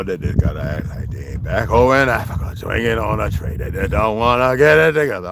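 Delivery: lightly voiced bigoted old man rant; mock-preachy old man ranting; a hint of a grumbling old bigot; Uncle Ruckus. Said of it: "Sound like I do Uncle Ruckus to a T".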